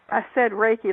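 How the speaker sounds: Reiki slurred so it can't be heard; slurred word. Retold or imitated. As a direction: mumble Reiki on purpose. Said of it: "slurring it".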